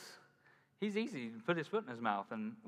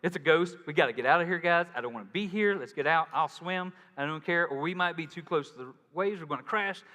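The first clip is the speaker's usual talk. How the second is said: panicked disciples; 2 semitones higher, 4 dB louder than usual. Retold or imitated. Disciples in the boat seeing Jesus on the water, mock panic. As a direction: play the scared disciples spotting a ghost. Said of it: "they're like".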